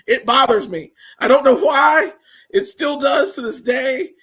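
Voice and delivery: loud, high-pitched pet-peeve rant; worked-up complaint; exasperated. Real, not acted. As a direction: let the annoyance push your voice up. Exasperated rant about mispronounced word.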